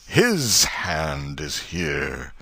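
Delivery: slow, solemn minister; lightly voiced preacher laying down judgment; minister's pronouncement. Minister speaks to the crowd by the grave, slow and solemn. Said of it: "the minister said".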